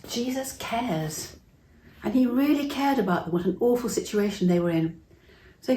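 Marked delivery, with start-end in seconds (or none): 0.1-1.4 read together slowly. Shown as a demonstration. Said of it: "Shall we read that together?".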